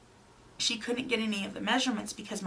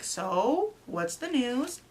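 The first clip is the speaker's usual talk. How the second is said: eager questioning; 4 semitones higher, much slower than usual. Retold or imitated. Husband eagerly asking for the news.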